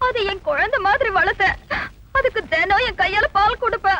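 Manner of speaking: hammed-up weepy reminiscing; sobbing between phrases over a lost pet; tearful. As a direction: talk through little sobs. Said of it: "ஆ, அழாதீங்க".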